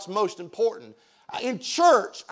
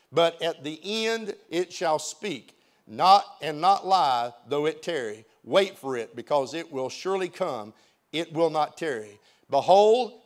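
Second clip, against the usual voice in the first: scripture reading; 3 semitones lower than usual. Acted. Pastor reads verses from Habakkuk.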